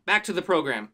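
vintage broadcast announcer voice; old radio announcer. Acted. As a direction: hand back like a radio host. Returning from mock ad break.

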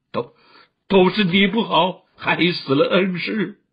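distraught, grief-driven shouting; tearful crying out. A narrator's reading. Bereaved disciple rages at his senior sister, crying out. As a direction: cry it out, breaking into stammers and surges. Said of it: "大声哭叫".

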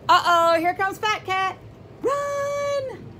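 high, loud storybook warning; mock alarm. Teacher reading aloud warns the mouse, mock alarm. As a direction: warn the little mouse to flee.

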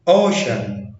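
"اوشن" with its c said as sh; sh sound. Shown as a demonstration. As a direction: say the middle of "اوشن" as a clear sh. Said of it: "فاتنطقت ش".

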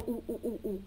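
short, quick monkey oohs; four light little oohs; monkey hoots. Shown as a demonstration. Teacher matching monkeys to their sound, short oohs. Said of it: "The monkeys go".

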